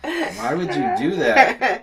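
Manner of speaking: high laughing protest; laughing disbelief. Real, not acted. Mock outrage while laughing.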